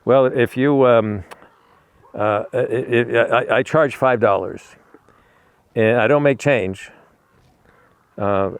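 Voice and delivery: halting, stuttering therapist. Retold or imitated. Shrink stutters out his fee to a patient, stuttering. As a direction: stumble and repeat words, full of ums. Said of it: "he stutters a lot".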